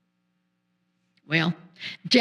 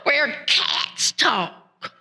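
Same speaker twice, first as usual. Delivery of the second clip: amazed exclamation; 8 semitones higher, slower than usual. Acted. Jack amazed at talking cat.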